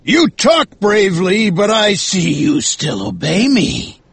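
high call, slowing at the end. A narrator's reading. Captain to first mate walking away, calling out. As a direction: call after him in a commanding captain's voice. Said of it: "Ahab called out".

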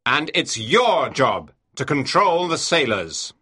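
stern, low-pitched captain's rebuke; angry words. A narrator's reading. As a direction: dress down an officer in a deep voice. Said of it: "the angry words".

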